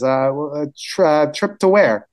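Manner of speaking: halting, confused stammer; fumbling for words. Acted. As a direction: stumble uncertainly into a puzzled question. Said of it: "trying to mumble for words".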